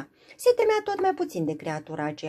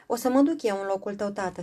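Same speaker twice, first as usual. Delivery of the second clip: cry out; 3 semitones higher, faster than usual. Acted. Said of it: "strigă Frumoasa".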